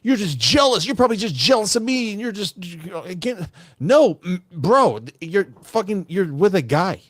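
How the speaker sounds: high, whiny mock protest from the fooled friend; high mocking voice of a friend who won't listen; mock deluded friend. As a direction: play the friend in denial, shrill and indignant. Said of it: "it's like you're on a date with a girl and we're like".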